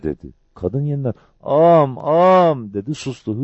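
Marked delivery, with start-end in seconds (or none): 1.4-2.7 acted tearful plea, pitched up; high, broken-off lament; sobbing. A narrator's reading. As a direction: wail it as if sobs cut you off. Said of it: "Hıçkırıklar sözünü kesiyordu".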